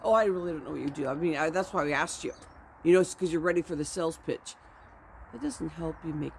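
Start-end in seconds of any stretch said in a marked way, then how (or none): 0.0-4.6 dismissive snark. Retold or imitated. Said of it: "don't slam them and say".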